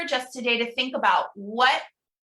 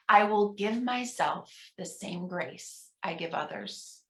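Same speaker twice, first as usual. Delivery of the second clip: softer, murmured repeat; soft responsive echo; 2 semitones lower, 5 dB quieter than usual. Shown as a demonstration. Minister quietly repeating the affirmation with the congregation. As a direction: say it under your breath along with them. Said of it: "pause and encourage you at home".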